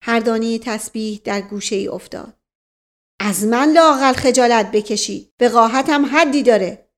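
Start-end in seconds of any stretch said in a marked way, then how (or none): 3.2-6.9 indignant scolding, louder; angry rebuke. Acted. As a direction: snap at him in outrage. Uncle slams rosary, scolds.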